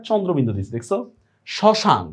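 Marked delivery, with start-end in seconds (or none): 1.5-2.0 শ্মশান as "shoshan", no m; silent m-phala. Shown as a demonstration. Teacher gives a second example, শ্মশান with silent m. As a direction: drop the m in শ্মশান. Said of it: "মফলার কোনো উচ্চারণ নাই".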